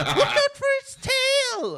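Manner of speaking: high, loud, drawn-out mock yell; mock warning shout. Player warning against a dragon, mock shout. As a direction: holler a hammed-up warning. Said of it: "literally is like".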